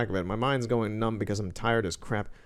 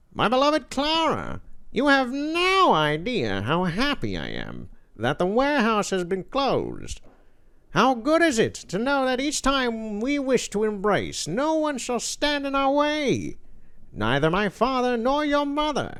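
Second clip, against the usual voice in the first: very high, swooping villain voice with a cackle; 12 semitones higher than usual. Speaker announces he'll do Skeletor and reads the passage aloud: Skeletor voice. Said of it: "I'll I'll do Skeletor".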